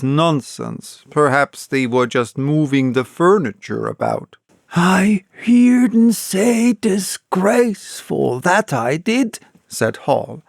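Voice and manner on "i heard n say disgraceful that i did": insisting. A narrator's reading. Hall insists to his wife.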